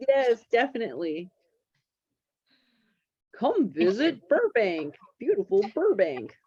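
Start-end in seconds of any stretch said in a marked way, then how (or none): 3.4-6.3 mock tourism ad. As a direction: sell Burbank like a hammed-up tourism ad. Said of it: "You could do the voiceover".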